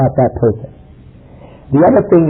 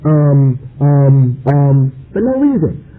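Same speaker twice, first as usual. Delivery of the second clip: mock hesitant sheikh; slower than usual. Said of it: "Suddenly we find you talking like that".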